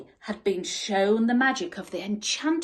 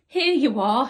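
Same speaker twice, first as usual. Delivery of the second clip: laughing; 3 semitones higher, 7 dB louder than usual. A narrator's reading. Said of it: "he laughed".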